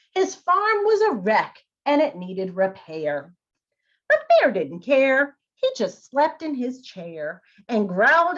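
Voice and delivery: storybook narration; narrator voice. Shown as a demonstration. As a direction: read it as the storyteller. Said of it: "the narrator voice ... your normal voice".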